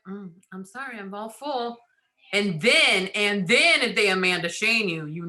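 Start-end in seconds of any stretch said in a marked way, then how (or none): 0.1-1.8 mock polite refusal. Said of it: "you're like".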